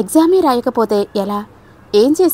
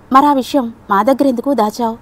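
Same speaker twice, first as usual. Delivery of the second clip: snapping; 2 semitones higher than usual. Acted. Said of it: "కస్సుమన్నాడు Shyam".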